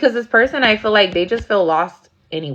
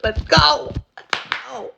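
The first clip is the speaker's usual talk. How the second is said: higher, urgent let's go; hurried urging; 4 semitones higher than usual. Retold or imitated. Friend hurrying her off the property, high and urgent. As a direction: rush her away.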